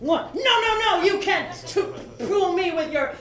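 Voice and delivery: high, excited Boston tourist; Boston accent. Pretend.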